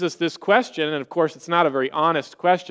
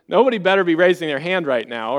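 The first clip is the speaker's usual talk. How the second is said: laughing tease. Real, not acted. Joking with congregation.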